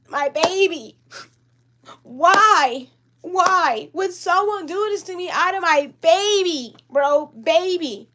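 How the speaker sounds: slow, drawn-out whimpering lament; tearful pleading. Real, not acted. Asking why someone took the baby, tearfully. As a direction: plead as if close to crying. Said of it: "sorry guys, I'm about to cry".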